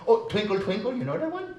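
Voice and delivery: puppet voice. Acted. Puppet Hasivad about to sing.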